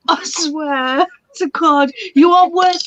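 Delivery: slow, breaking with laughter; laughing. Real, not acted. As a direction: laugh through the words. Laughing at the snort.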